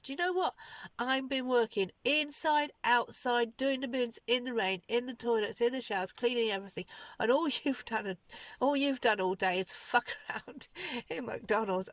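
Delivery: indignant retold tirade, each "in the" hammered; retold angry rant. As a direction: list every job like throwing it back at him. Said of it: "Oh, I was so cross".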